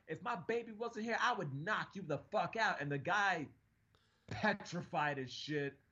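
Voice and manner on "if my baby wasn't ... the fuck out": imitated threat. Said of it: "And she was like".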